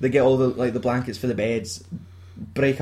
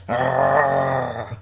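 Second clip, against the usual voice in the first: imitated drawn-out groan. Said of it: "lying there with black face going".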